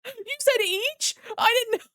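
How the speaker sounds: high, loud shocked wait a minute; double-take of real disbelief; stunned disbelief. Real, not acted. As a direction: streamer realizing a donation was far bigger, shocked. Realizing the donation was bigger.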